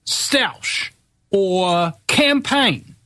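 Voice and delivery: exasperated, high-pitched, each word spaced out; ranting, voice pitched right up; worked-up rant. Real, not acted. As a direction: hammer every word in high, slow exasperation. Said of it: "I'm not gonna be calm".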